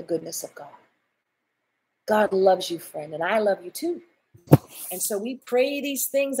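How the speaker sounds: fervent preached prayer, rising and pushing. Acted. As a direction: pray over them with full conviction. Prays aloud over viewers.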